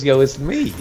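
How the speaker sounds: imitated boast, jumping high on the name; mock self-important introduction. Teller mimics an unknown player introducing himself, self-important. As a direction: announce yourself as if famous.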